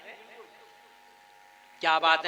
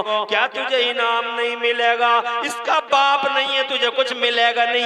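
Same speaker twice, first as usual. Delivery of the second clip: 1 raised accusing question; 7 semitones higher, 4 dB louder than usual. Acted. Mothers' argument, louder.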